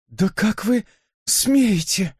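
gasped out. A narrator's reading. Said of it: "выдохнула Сьюзен".

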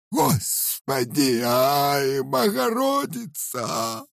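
very high, slow shrieking cry; piercing scream. A narrator's reading. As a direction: scream for the icon in terror. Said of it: "пронзительно закричала старуха".

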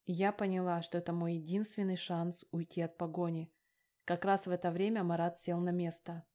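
ordinary delivery, nothing marked

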